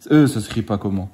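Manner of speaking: put-on "ça s'écrit pas comment" in a teasing, lightly childish voice; mock child talk. Dad teasing his son about his spelling, in a mock child voice. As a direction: mirror the kid's wrong wording back at him. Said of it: "si je te parle comme ça".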